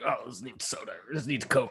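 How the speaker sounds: high, mocking voice of others; mocking whiskey mixers. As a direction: mimic people who want soda. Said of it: "they were like".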